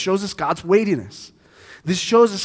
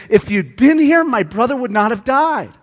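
louder, higher pulpit emphasis; emphatic sermon point; 5 semitones higher, 7 dB louder than usual. Acted. Pastor stressing both sisters said the same. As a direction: make it ring out.

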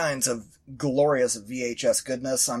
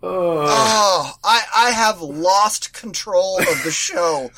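breathless after big laugh; winded from laughing, slow; after laughing hard; 2 semitones higher, 4 dB louder, slower than usual. Real, not acted. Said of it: "Oh, my stomach hurts".

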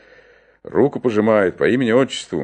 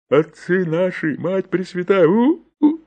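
pained cry; 7 semitones higher, 4 dB louder than usual. Acted. Tooth pulled, deacon cries out.

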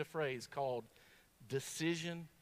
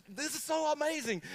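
mock excited; 8 semitones higher, 3 dB louder than usual. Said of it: "And I'm just".

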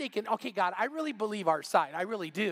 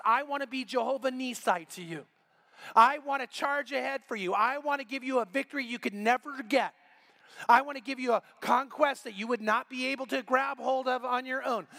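impassioned; 4 semitones higher than usual. Acted. God's promise, preached with rising force.

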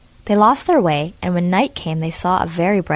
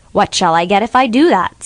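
louder, odd-timbred greedy crocodile; 3 semitones higher, 7 dB louder than usual. Acted. Crocodile to Fatima, greedy bargaining. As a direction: bargain like a hungry beast.

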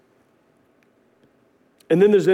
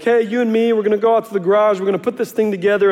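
fast, keen invitation to build; eager father-in-law; 3 semitones higher, much faster than usual. Retold or imitated. Father-in-law calling him to the garage, fast and eager. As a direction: rush it out, raring to go. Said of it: "my father-in-law was like".

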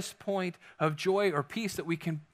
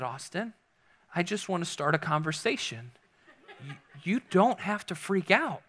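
calm and soft. Retold or imitated. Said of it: "Ashley looked over very calmly".

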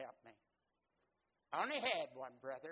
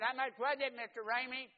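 dad asking; 9 semitones higher, 9 dB louder than usual. Retold or imitated.

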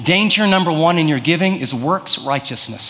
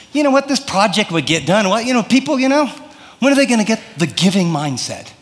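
mock veiled griping, higher in the middle; veiled complaint; 3 semitones higher than usual. Churchgoer judging others over the budget, veiled mock complaint. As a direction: act out hedged, exasperated judging of others. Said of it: "you say it in really veiled ways".

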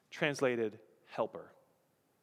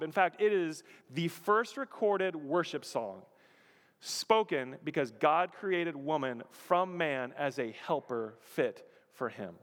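ordinary talk

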